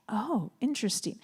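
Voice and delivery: composed, unbothered "Oh, interesting"; calm therapist poker face; calm game face. Shown as a demonstration. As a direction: keep your face and voice neutral. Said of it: "But on your face".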